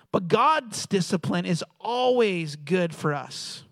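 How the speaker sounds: drawn out, weighty delivery; slow emphasis. Real, not acted. Preacher reading Hebrews to the congregation, slow and emphatic. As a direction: stretch the key words slowly for emphasis.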